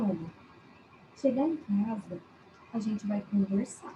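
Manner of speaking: very calm, hushed, low and quiet voice. Showing how a mother warns her child: imitating a calm low voice. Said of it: "bem calminha, falando em voz baixa".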